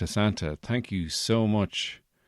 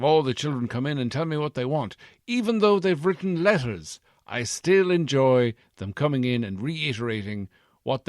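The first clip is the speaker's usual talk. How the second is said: put-on posh English accent; 5 semitones higher, 3 dB louder than usual. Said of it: "you kinda sound more like a posh English person now".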